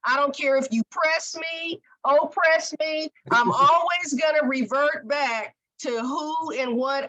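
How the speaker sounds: the hair refusing to be straightened; natural hair vowing to always revert; defiant hair voice. Pretend.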